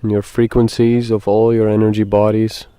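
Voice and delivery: measured meditation guide, long pauses between phrases; guided meditation. Acted. Guide asks listeners to breathe and settle, guided meditation. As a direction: lead them gently through it, leaving space.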